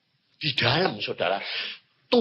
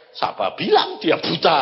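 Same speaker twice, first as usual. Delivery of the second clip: God's calm reply; 6 semitones lower than usual. Retold or imitated. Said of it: "Tuhan bilang apa?".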